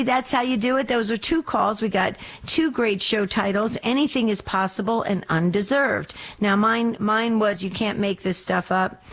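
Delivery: usual speaking voice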